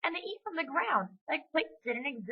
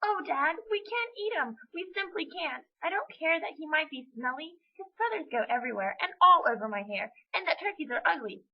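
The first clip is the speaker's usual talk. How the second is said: put-on high-pitched begging child; desperate pleading; 8 semitones higher than usual. Amy begging dad to spare Gus, pleading. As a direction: plead earnestly, piling up reasons. Amy begs for turkey's life.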